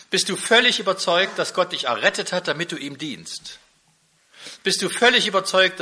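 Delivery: insistent repeated preaching questions, building up; preacher challenging the listeners' conviction. Acted. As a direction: press the congregation line by line.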